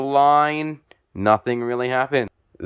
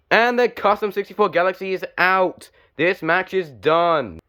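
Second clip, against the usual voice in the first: excited call; 7 semitones higher than usual. Real, not acted. Car eliminated, match ends.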